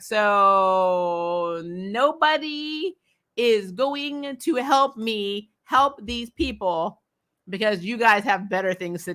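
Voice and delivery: slow, drawn-out mock exasperation; Kelly pointedly dragging out her disbelief at the friends; unimpressed Kelly. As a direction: spell it out slowly like she's had enough. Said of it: "Kelly is not impressed".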